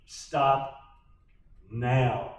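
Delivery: measured command, NOW set apart after STOP; emphatic. Retold or imitated. Mom ordering her son to quit, emphatic and spaced. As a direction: STOP and NOW as two separate words, a pause between. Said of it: "That's the emphatic".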